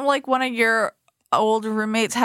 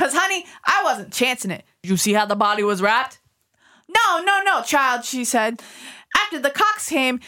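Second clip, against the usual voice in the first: emphatic New York landlady, jumping up on no no; landlady telling the reporter what happened, New York accent; 3 semitones higher than usual. Acted. S2 voices Lois in the story.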